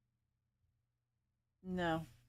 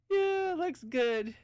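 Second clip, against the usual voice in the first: slow drawl; 7 semitones higher, much slower than usual. Real, not acted. Drawn out, very slow.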